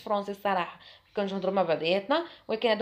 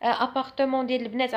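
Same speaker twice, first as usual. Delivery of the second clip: mocking a shy boy. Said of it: "نقول لك".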